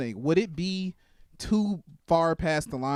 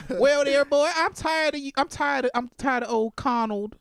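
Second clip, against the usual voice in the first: mock Southern wife; 6 semitones higher than usual. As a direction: purr it like a bored plantation wife. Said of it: "She'll say".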